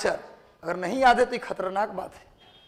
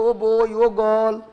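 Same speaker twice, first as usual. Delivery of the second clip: put-on English accent; 3 dB louder, slower than usual. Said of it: "वो लोग अंग्रेजी में भी बोलते हैं".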